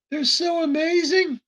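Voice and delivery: high, hammed-up genteel gushing; old slave owner voice. Mocking old slave owners praising their servants, high and hammed-up. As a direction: gush like a pompous old plantation master. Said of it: "old slave owner".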